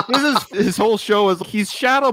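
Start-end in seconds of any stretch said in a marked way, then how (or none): none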